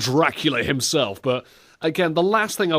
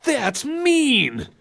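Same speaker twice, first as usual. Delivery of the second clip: put-on hurt kid whine; 12 semitones higher than usual.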